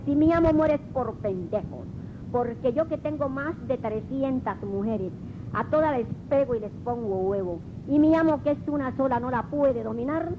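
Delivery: un gallo presumido y burlón, algo más agudo y fuerte; gallo fanfarrón. Acted. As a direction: presume como un gallo que manda en su corral. Gallo presumido le habla al perro. (el gallo se burla del amo ante el perro, con voz jactanciosa algo más aguda)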